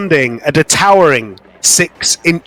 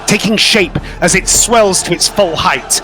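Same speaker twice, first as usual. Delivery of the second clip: rising dramatic narration. A narrator's reading. Game master conjuring a furious figure in the flames, building narration. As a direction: swell the tension with each line.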